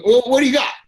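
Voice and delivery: high, loud, demanding mock voice; mocking beggar. Beggar asking what else he gets, high mocking voice. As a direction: sneer it as the greedy guy.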